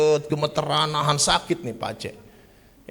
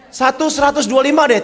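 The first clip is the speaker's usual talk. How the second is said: high, louder bargaining through a laugh; laughing haggle; 13 semitones higher, 9 dB louder than usual. Retold or imitated. (menawar sambil tertawa, suara tinggi)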